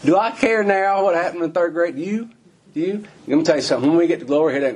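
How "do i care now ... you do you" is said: rhetorical challenge. Real, not acted.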